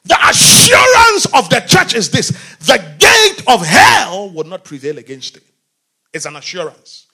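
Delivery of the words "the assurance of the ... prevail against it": preacher restarts the line even louder for the church; fuller preaching shout. Real, not acted. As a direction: hit it harder after the slip. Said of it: "oh my God".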